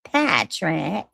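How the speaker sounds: a hint of a cartoon grump calling a name; slow, lightly put-on cartoon voice; Squidward. Streamer missing SpongeBob and landing elsewhere, lightly voiced Squidward. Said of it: "no, that's Squidward".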